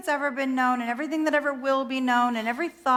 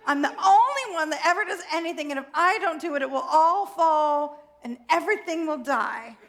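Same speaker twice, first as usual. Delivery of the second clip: fast, higher melodramatic whine; tantrum; 3 semitones higher than usual. Acted. Self-pitying self insists to God, dramatic tantrum. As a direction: overdramatize like a sulking teen. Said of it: "my tantrum".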